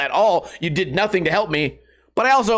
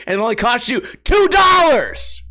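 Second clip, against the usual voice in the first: loud, higher burst of frustration; exasperated shout; 6 semitones higher, 4 dB louder than usual. Real, not acted. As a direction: yell the price out in disbelief. Angry rant about membership price.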